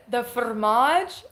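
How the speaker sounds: slow, drawn-out puzzled The fromage; a lightly voiced baffled cashier; mocking cashier. Cashier questioning her order, slow mock confusion. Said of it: "She says".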